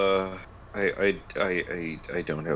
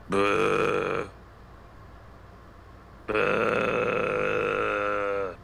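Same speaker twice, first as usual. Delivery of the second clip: beached walrus noise; 3 dB quieter, much slower than usual. Shown as a demonstration. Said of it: "Just make beached walrus noises".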